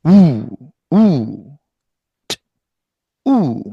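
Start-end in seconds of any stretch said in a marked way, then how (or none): 0.0-1.6 우 said apart as its own sound; separate oo. Shown as a demonstration. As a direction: hold 우 alone, cut off from the consonant. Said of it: "그다음에 우 따로".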